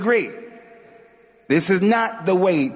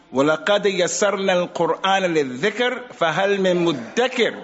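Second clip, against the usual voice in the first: quick Quran quote; much faster than usual. Acted. Quran recitation.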